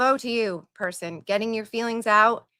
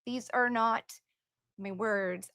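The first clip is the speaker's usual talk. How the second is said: much softer, almost to herself; quiet disclaimer; 9 dB quieter than usual. Real, not acted. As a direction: drop the voice and repeat it under your breath. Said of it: "I'm just reading it".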